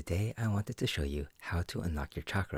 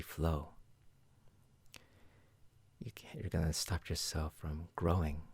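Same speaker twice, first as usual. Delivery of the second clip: calm, unhurried guide through the chakras; measured meditation-teacher voice with reflective pauses; guided meditation. Acted. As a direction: lead a listener gently inward, leaving long pauses.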